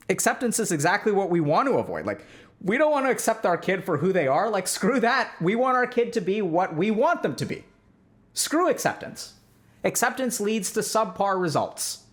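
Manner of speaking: hammed-up dismissive parent, jumping high on screw acceptance; mock authoritarian parent. Lecturer mocking authoritarian parents, dismissive. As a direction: sneer it like a strict parent who rejects acceptance. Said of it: "The authoritarian parenting style".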